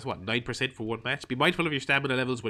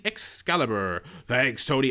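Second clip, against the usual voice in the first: terrible Excalibur; slower than usual. Retold or imitated. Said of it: "That was a terrible Excalibur".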